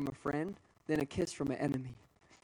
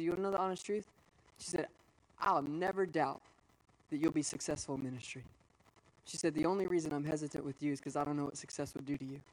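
choked up; 3 dB quieter than usual. Real, not acted. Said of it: "I don't know why it's giving me emotion".

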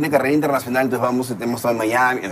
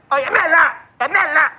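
shouting her name; 14 semitones higher, slower than usual. Retold or imitated. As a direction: call out to get her attention. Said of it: "le grito".

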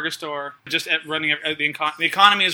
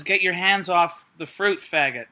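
put-on Australian accent; slower than usual. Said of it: "Why am I doing an Australian accent".

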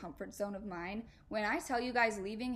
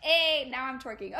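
excited diva; 4 semitones higher, 9 dB louder than usual. Real, not acted. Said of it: "I am embodying a singer".

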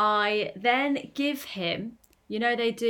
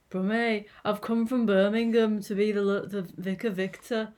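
badly faked Brummie accent; attempted Brummie accent. Vicar newly arrived from Birmingham, attempted Brummie accent. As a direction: have a shaky go at Brummie. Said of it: "I can't do a Brummie accent".

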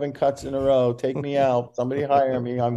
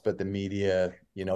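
usual speaking voice

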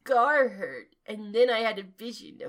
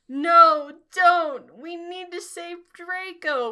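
loud, high-pitched pleading; begging; 8 semitones higher, 8 dB louder than usual. A narrator's reading. Students begging the headmaster to save Draco, pleading. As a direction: plead urgently, pitched well up. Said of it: "we begged".

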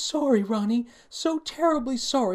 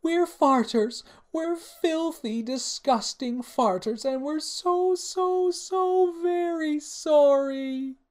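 very high, slow, drawn-out theatrical wail; wailing princesses; 5 dB louder, slower than usual. A narrator's reading. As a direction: build to a loud, stretched-out howl of remorse. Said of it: "the two princesses cried as one".

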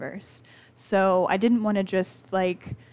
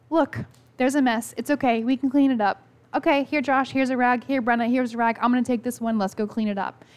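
higher, bright-toned cheerful grandmother handing out rags; upbeat reassuring nana; 4 semitones higher, 3 dB louder than usual. Retold or imitated. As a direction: make cleanup sound like fun for the kids. Grandmother cheerfully turning mess into task.

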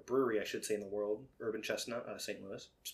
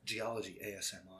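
sultry narrator; 4 semitones lower, 9 dB quieter, faster than usual. Pretend. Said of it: "For these sultry voices".

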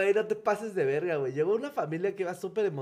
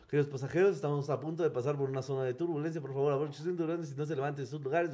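imitating the captain's announcement; 2 semitones lower, 5 dB quieter, faster than usual. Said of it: "suena como".

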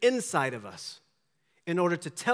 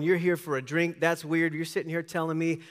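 sarcastic; 3 semitones higher, 4 dB louder than usual. Retold or imitated. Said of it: "responds to him sarcastically".

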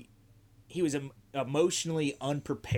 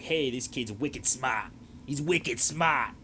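put-on Boston accent; slower than usual. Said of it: "we both fucked up the accent".

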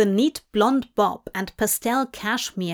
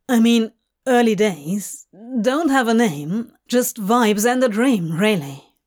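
nervous; 4 dB louder than usual. Acted. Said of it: "glanced nervously".

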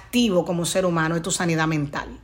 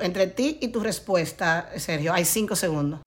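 slow, softer repeat with "ti" and "cinco" stressed; 6 dB quieter than usual. Shown as a demonstration. Coach repeating the lesson to Sergio, softer and slow. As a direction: drop the voice and let "ti" and "cinco" sink in.

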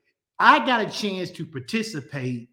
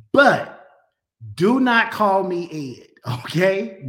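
louder, punching NOT in "do not call me Ed"; firm warning; 5 dB louder, slower than usual. Real, not acted. Pastor warning his viewers, firm and loud. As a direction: lay down the law with a grin. Jokingly laying down a name rule.

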